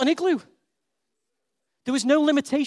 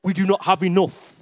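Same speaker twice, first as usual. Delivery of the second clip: low, lightly voiced doubting grown-up; a hint of a sceptical adult shutting it down; sensible adult; 9 semitones lower than usual. Adults talking themselves out of it, lower and doubtful. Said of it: "We as adults logically go".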